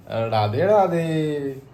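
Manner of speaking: lightly voiced godman, drawn out very slowly; a mild mock blessing, stretched slow. Son playing a godman for mom, slow mock blessing. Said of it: "मैं वो बनूंगा".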